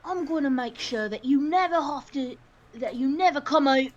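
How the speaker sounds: lightly done Cockney menace; light Cockney threat. Acted. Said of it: "I've always wanted to try Cockney".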